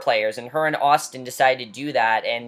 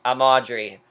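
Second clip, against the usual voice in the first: robotic Audrey; 3 semitones lower, 4 dB louder than usual. Retold or imitated. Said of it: "Talk in this robotic voice".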